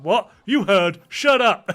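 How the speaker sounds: rising Scottish bark at the tourist; Scottish accent. Retold or imitated. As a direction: Scotsman telling the tourist to shut up, mock Scottish accent. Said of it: "He's like".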